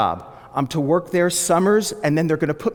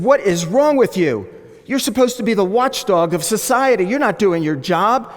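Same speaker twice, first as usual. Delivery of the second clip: raised, indignant scolding; mock outraged scream; 5 semitones higher, 3 dB louder than usual. Caller scolds a reporter on the phone, mock outraged. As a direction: act out berating someone, voice pushed up. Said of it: "proceeded to scream at him".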